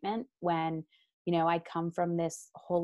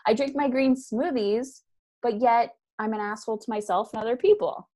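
raised mock voice of a smug yoga person; mocking wellness people; 4 semitones higher, 3 dB louder than usual. Mocking smug yoga people who are unkind. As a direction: lampoon the green-smoothie crowd. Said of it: "where people are like".

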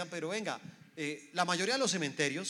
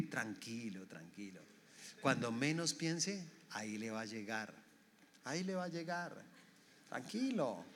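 quiet menace; 6 semitones lower, 9 dB quieter than usual. Acted. Resentful person promising payback, quietly menacing. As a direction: sink low and soft, savouring revenge. Voices someone plotting quiet revenge.

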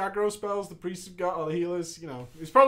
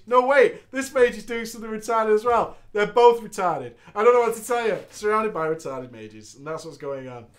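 ordinary delivery

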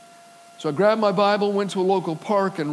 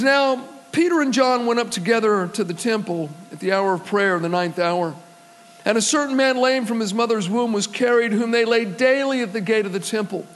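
measured, proclaiming Bible reading; scripture reading. Acted. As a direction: read the verses to the congregation. Reads Acts chapter three aloud.

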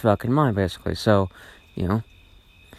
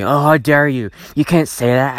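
lightly imitated indignant objection; mock defensiveness; 2 semitones higher, 3 dB louder than usual. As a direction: mimic an offended person, a touch indignant. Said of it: "get a little defensive and say".

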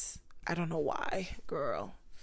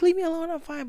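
high, louder hammed-up shout; mock yell; 11 semitones higher, 7 dB louder, faster than usual. Still pushing away church friends, mock shout. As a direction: yell the brush-off again in fun. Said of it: "I'm like".

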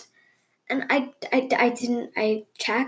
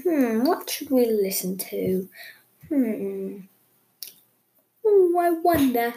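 thinking hmm; slower than usual. Pretend. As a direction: ponder like a bearded sage. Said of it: "I stroke my beard".

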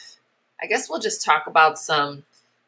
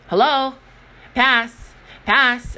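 put-on demanding kid; 6 semitones higher, 4 dB louder, much slower than usual.

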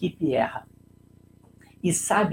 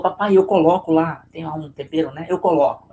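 eager little daughter; 8 dB louder than usual. Retold or imitated. Daughter eager to help cooking.

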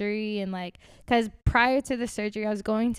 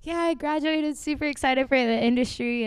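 mock excited; 6 semitones higher, 5 dB louder than usual. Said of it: "I literally am like".

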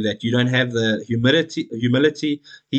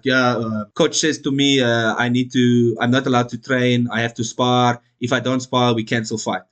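mock Dagestani Russian accent, slow and broken; lightly done Russian accent; 2 semitones lower than usual. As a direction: imitate a Russian fighter's broken English. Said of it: "That was a horrible Russian accent".

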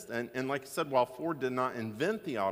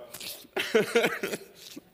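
mock sob; 10 semitones higher, 5 dB louder than usual. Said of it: "through a lot of tears and snot".

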